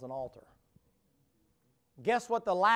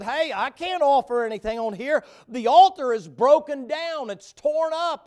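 a hint of Elijah; 8 semitones higher, 12 dB louder than usual. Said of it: "He said".

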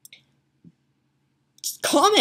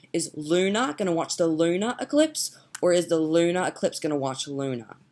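put-on Australian accent. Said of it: "lunar in an Australian accent".

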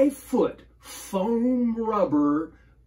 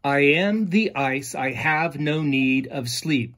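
poem recital; 4 dB louder than usual. Shown as a demonstration. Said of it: "it speaks in iambic pentameter".

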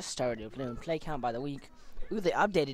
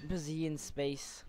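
whisper; 7 dB quieter than usual. Real, not acted. Unvoiced whispered aside.

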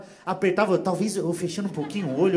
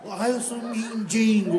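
mock beggar; slower than usual. Comedian mocking a beggar who is full of himself. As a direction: whine it out slowly like a beggar. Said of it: "Ah, se acha".

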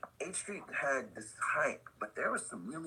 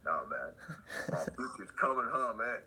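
defeated. Retold or imitated. Low defeated reply.

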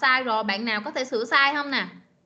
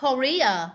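"Korea" said ko-REE-uh; stress on second syllable. Shown as a demonstration. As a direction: stress the middle of "Korea", ending on a schwa. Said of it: "Nhấn âm hai".

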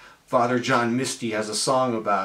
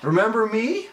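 high small plaintive voice; neglected watch; 8 semitones higher than usual. Pretend. Ignored watch pleading with its owner, high plaintive voice. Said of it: "it's looking up at you".

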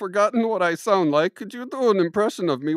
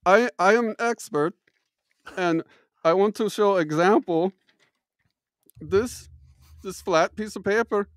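mock German accent. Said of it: "my accent goes in and out".

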